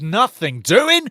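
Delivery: imitating an erratic referee; mock referee. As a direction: ham up the referee's calls. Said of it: "Referee says".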